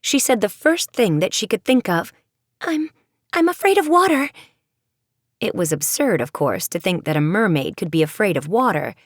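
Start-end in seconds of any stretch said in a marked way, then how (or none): 2.6-4.3 higher, stumbling blurt; flustered blurt. Acted. Michelle blurting an excuse, flustered. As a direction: blurt the first thing that comes. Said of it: "she was quite flustered".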